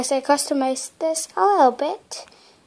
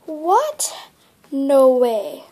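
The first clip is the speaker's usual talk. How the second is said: shocked disbelief; 6 dB louder, much slower than usual. Real, not acted. Script thrown away.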